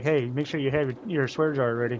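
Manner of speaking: put-on imitation of a chatbot voice. Imagining what Trina's AI bot would say: Trina AI bot voice. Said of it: "Trina's A I bot would be like".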